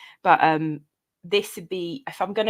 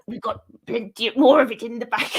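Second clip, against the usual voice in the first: laughing quote; 2 semitones higher, 3 dB louder than usual. Retold or imitated. Jailer quote retold.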